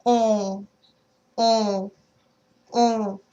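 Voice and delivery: "On" through the nose, no N; nasal on. Shown as a demonstration. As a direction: close the throat for "On". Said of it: "force the air into your nose".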